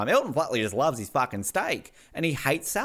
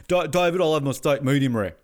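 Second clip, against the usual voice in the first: mimicking a singer; 3 dB louder than usual. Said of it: "that's a bit more like it".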